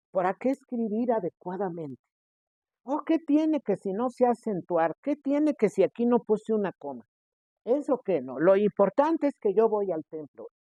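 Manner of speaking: mock dismissive. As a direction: brush off every rule as pointless. Mocking the fool's excuses. (voz burlona y despectiva, más aguda)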